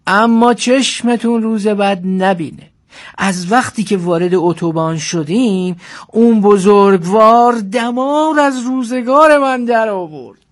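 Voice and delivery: storyteller's voice with drawn-out key words; story narration. A narrator's reading. Driver recounts the trip with his elder passenger, story narration. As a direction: tell it wryly, dwelling on the big words.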